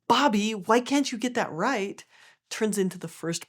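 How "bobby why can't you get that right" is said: higher-voiced, lightly acted parental scolding. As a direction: scold a child in mild exasperation. Voices a shaming parent to child.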